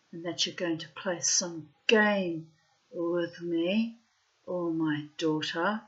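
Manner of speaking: slow, deliberate, spaced-out phrases; acted stern ultimatum, unhurried; measured warning. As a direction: lay down a warning piece by piece. Mother's warning to the boyfriend.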